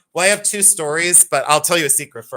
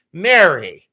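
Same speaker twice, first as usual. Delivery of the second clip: loud, falling call of a name; doctor calling out; 6 dB louder than usual. Retold or imitated. Doctor calls over to mom Mary, mock calling out. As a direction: call the name across the room.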